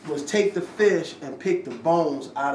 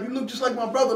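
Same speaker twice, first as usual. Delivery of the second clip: excited greeting; 9 semitones higher, faster than usual. Retold or imitated. Strangers greeting him on the street.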